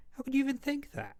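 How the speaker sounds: shocked outrage. Acted. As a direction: rise into disbelieving outrage. Arguing to keep the kitten.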